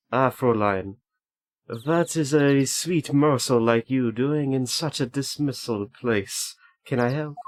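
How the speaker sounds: put-on slow, drawn-out German accent; lightly put-on German accent, savoring the words; German-accented character. Gamer voicing a German prosecutor greeting Fräulein, mock German accent. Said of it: "a Franziska kind of voice".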